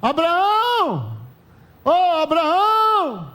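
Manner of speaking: high, slow drawn-out call of Abraão; Sara calling out. Acted. Sara calling her husband from the tent, long call. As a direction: stretch the name out like calling across the camp.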